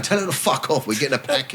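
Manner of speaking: hushed, sly inner voice of temptation; a sneaky little devil on the shoulder; tempting inner voice. Retold or imitated. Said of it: "the voice would be going".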